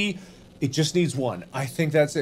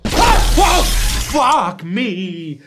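startled shout; 4 semitones higher, slower than usual. Real, not acted. Jumpscare reaction.

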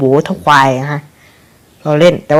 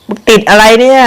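startled outburst; 6 semitones higher, 7 dB louder than usual. Real, not acted. Character gets stuck in game.

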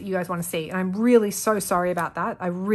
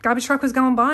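out of breath; 2 semitones higher, 4 dB louder than usual. Real, not acted. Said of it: "I'm, like, all out of breath".

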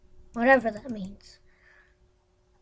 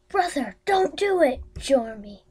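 dramatic plea; 3 semitones higher, 5 dB louder than usual. Pretend. Acting character plea.

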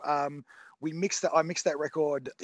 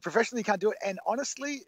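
ordinary talk, nothing marked

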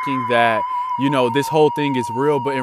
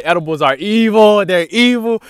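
mock outraged outburst; 7 semitones higher, 7 dB louder than usual. Retold outburst about edibles.

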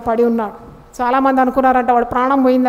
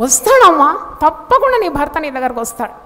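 faith-filled declaration; 2 semitones higher than usual. Shown as a demonstration. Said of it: "నేనేమంటాను దేవుని సేవకురాలుగా".

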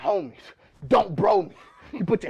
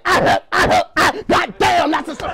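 mock pained groans of a DJ, higher; 5 semitones higher than usual. Battle rapper imitating a DJ after a throat punch. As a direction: ham up getting punched in the throat. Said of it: "Sound like a DJ".

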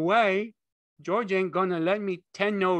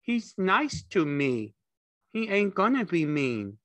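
high, loud, stubborn protest; belligerent retort; 11 semitones higher, 5 dB louder than usual. A narrator's reading. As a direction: argue back like an upset simpleton. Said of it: "Lenny retorted belligerently".

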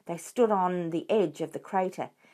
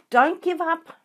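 high, louder breathless tenderness; Mister Fox panting to his family; 11 semitones higher, 7 dB louder than usual. A narrator's reading. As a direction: gasp it out lovingly while running. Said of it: "panted Mister Fox".

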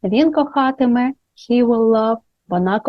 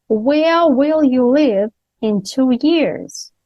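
slow example; 4 semitones higher, much slower than usual. Shown as a demonstration. Teacher models example slowly.

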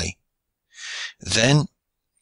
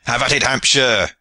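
lively egging-on, no real laugh; laughing cry; 3 semitones higher, 3 dB louder than usual. A narrator's reading. Archers egging on their big comrade, crying merrily. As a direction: cheer him on in mild merriment. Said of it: "cried the archers, laughing".

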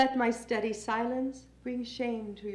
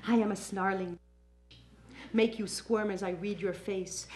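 low menace; 4 semitones lower, 4 dB quieter than usual. Acted. Menacing snarling creature in poem.

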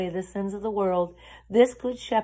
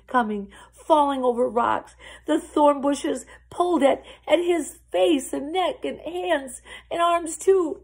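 dramatic narration; 6 semitones higher, 6 dB louder than usual. A narrator's reading. Dramatic struggle through the storm.

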